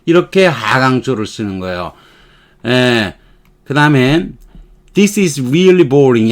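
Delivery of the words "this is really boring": slow, falling end on boring; teacher demo of a falling statement; falling tune. Shown as a demonstration. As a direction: let the line drop at the end. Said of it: "하고 내려가는 거예요".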